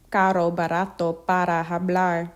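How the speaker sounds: R in Caro, barato, para tapped once; single-flap R. Shown as a demonstration. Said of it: "a single tongue flap".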